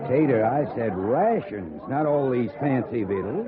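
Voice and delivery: loud, slow complaint at the cook; gruff scolding. Acted. Rancher scolding cook over fancy food, loud and slow. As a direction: bark it out, slowly and loud.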